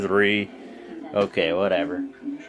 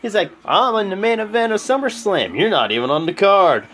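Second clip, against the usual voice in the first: high, cocky mock AJ taunt; imitating AJ; 7 semitones higher, 3 dB louder than usual. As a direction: sneer it like a smug wrestler. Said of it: "And then A J's like".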